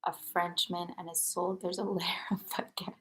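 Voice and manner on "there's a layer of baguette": whisper. Real, not acted. Whispered punchline, laughing.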